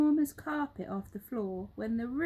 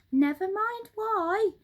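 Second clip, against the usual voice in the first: high, loud impatient monkey shout; 10 semitones higher, 7 dB louder than usual. Acted. Mugglewump silencing questions, high loud shout. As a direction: cut them off. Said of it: "shouted Mugglewump".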